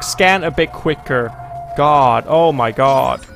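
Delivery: exasperated at the game; frustrated outburst. Real, not acted. Gamer exasperated by slow scan, loud.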